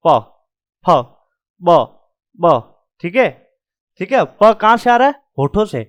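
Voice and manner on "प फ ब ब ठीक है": प फ ब ब each clipped off closed lips; teacher sounding out the प row; lip sound demo. Shown as a demonstration. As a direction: pop each letter off the lips. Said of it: "प वाली line बोल के देखो".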